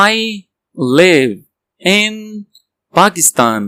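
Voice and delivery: each word alone. Shown as a demonstration. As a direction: chunk it slowly. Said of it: "word by word drill".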